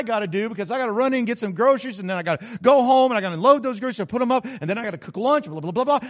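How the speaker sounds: rushed list of errands; busy rattle. Acted. Preacher tangled up in errands, hurried rattle. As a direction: rattle off chores without stopping. Acting out being too busy.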